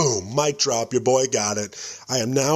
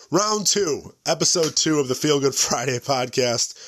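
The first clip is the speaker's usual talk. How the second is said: show intro; slower than usual. Acted. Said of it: "what an intro".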